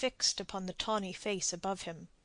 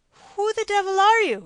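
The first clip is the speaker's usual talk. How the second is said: much higher and louder, a furious shout; angry demand; 12 semitones higher, 12 dB louder than usual. A narrator's reading. Spanish captain shouts at the stranger, furious. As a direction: bellow at the stranger. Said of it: "he asked".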